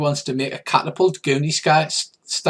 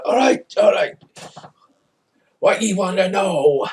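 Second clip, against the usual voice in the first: scared bandit giving in; 5 semitones higher than usual. Acted. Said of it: "he's gone".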